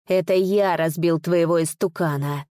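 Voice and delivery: usual speaking voice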